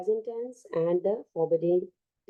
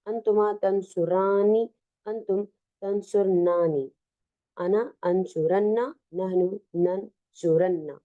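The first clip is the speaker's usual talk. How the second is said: quick sing-song recital of the conjugations; reciting a verb chart; 2 semitones higher, faster than usual. Shown as a demonstration. Teacher reading the chart aloud to students, brisk recital. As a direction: rattle off the table like a drill.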